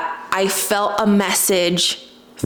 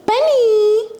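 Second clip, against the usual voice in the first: much higher and louder shout of the name; sharp yell at dog; 13 semitones higher, 4 dB louder than usual. Real, not acted. To her barking dog Benny, a sharp loud yell. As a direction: make the barking stop with one yell.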